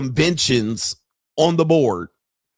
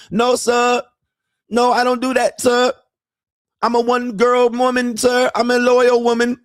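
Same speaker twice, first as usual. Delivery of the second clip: put-on high, broken-English Thai girlfriend voice; mock Thai accent; 11 semitones higher than usual. Mocking Thai girlfriend asking her man for money in a high accented voice. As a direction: imitate a Thai bar girl pleading for money.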